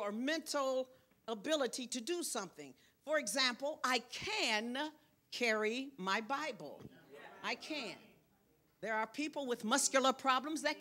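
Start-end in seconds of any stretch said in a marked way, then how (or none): 3.8-6.8 "can" drawn out, then a pause; stress on CAN. Shown as a demonstration. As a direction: stretch the word "can" and pause after it. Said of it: "put emphasis on the word can".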